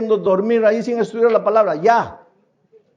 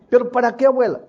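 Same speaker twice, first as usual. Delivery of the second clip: higher, teasing grandson voice; a hint of a scoffing grandson, higher; mocking grandson; 6 semitones higher, faster than usual. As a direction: needle the forgetful grandmother. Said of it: "el nieto le dice".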